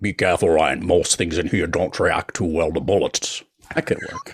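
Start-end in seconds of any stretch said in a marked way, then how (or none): 0.0-3.4 put-on Scottish actor voice, impression. Swapping movie-quote impressions, the speaker does a Sean Connery impression. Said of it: "should do your Connery would be better".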